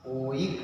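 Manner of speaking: ओइक said as "o-ik"; pronunciation demo. Shown as a demonstration. Teacher showing students how the suffix is pronounced, ओइक as "o-ik". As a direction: say ओइक as two vowels, o then ik. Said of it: "इसका उच्चारण हम करेंगे".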